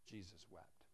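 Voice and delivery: soft and low, letting it land; hushed reading. Acted. Preacher reading the gospel to the congregation, hushed. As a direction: drop the voice for the weight of it.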